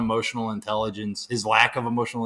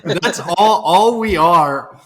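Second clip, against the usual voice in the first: slow emphatic; 3 semitones higher, 5 dB louder, slower than usual. Real, not acted. Slow punchline delivery.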